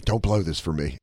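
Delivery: low, weighty caution in jest; mock-serious low voice; imitated stern warning. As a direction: warn them like an invested boss.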